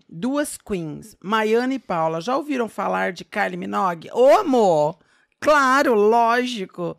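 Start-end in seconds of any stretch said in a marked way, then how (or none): 4.1-6.9 loud, eager "of course!"; excited exclaim. Real, not acted. Host answers the question about a pop singer with an excited loud exclaim. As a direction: burst out like it's obvious.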